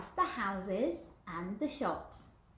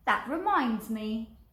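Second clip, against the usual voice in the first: louder, slower remembering; big skeleton voice; 6 dB louder, slower than usual. Acted. Big skeleton recalling the plan, louder and slow. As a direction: pause as it dawns. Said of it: "he said".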